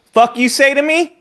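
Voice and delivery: retold tough-guy yell. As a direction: snap it back at him, half laughing. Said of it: "I said".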